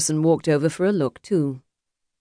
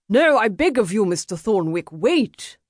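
higher-pitched plea; urgent pleading; 6 semitones higher than usual. Acted. Emissary begging the duelist to wait, pleading. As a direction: beg him to hold off. Interloper begs duel to stop.

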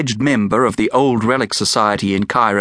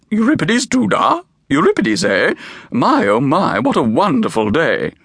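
dry mock delight, pitched high; drily amused at his name; a visitor teasing the keeper's name, dry; 6 semitones higher than usual. A narrator's reading. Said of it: "said Hermione Dinkus dryly".

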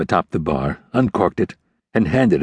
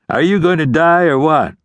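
impatient repeat; 9 semitones higher, 4 dB louder than usual. A narrator's reading. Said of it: "the ranger repeated".

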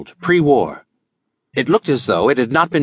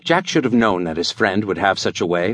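ordinary delivery

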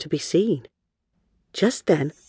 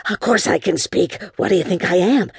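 talking dog; 4 semitones higher than usual. Acted.

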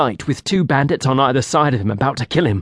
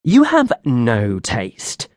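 protesting; much slower than usual. Acted. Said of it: "Cedric protested".

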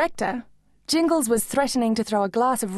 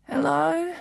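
weary hello; 6 semitones higher than usual. A narrator's reading. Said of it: "answered a weary-sounding".

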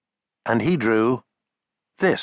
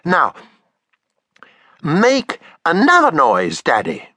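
put-on high eager little girl; child voice; 7 semitones higher, 4 dB louder than usual. Taffy copying her father's drawing: high eager child voice. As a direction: read as excited young Taffy, higher.

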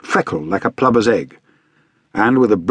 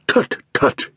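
mock dismissive tut; 4 semitones higher than usual. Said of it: "he cried".

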